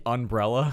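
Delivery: "umbrella" said slowly as "unbrella", rising; slow, questioning "umbrella" with un in place of um. Shown as a demonstration. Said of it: "is it um or un?".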